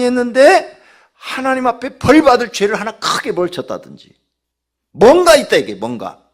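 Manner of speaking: high, loud sermon delivery building to a shout; impassioned preacher at full force; forceful preaching. Real, not acted. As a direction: drive each example home to the congregation.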